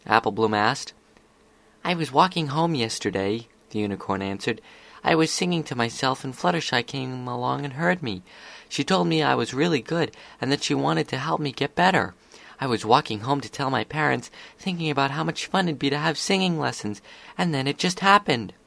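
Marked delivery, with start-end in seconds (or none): 1.8-3.5 Sweetie Belle, happy. Acted. Voices the unicorn telling her news. 5.0-18.5 Sweetie Belle, happy. Acted. Voices the unicorn telling her news.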